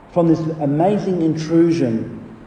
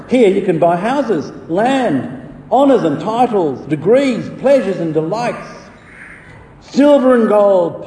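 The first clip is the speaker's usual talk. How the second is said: higher, lightly hawking sales patter; merchant calling out; 4 semitones higher than usual. Acted. Merchant tempting Christian in Vanity Fair, lightly calling out. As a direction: list the wares like a street seller. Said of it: "That was called out by the merchant".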